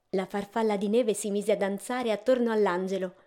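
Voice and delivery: plain reading voice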